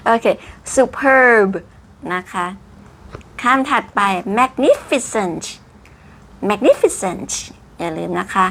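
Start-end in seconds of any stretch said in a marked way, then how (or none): 0.8-1.5 "superb" with a high, loud, stretched PERB; big punched PERB in "superb"; over-enunciated. Shown as a demonstration. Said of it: "ด้วยรูปคำ และยังทำจมูกบานอีก". 4.4-7.3 "magnificent" with high NIF and released T; crisp, hissy ending on "magnificent"; clear final T. Shown as a demonstration. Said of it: "สุดท้าย T ออกเสียงชัดๆ".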